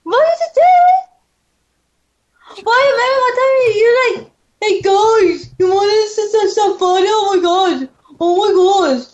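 high, fast put-on voice; impression voice. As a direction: rattle it off in a high voice. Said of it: "are you doing impressions now?".

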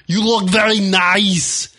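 slow mock Russian accent; hammed-up Russian accent, slow. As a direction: drag it out in a bad Russian accent. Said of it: "why would they sound like that".

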